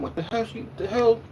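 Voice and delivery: mock angry disbelief. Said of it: "I'm mad as hell".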